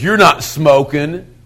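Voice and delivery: slow, drawn-out mild challenge; older guy's challenge. Retold or imitated. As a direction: imitate an older kid calling out a younger one. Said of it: "one of the elder guys goes".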